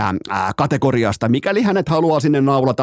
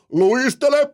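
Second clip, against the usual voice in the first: coach shouting; 9 semitones higher, much slower than usual. Retold or imitated. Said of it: "sulle pitää huutaa".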